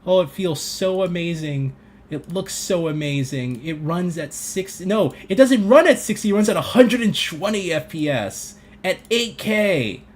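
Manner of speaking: mock gamer hype. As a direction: gush like a fan over frame rates. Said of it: "you guys want all that?".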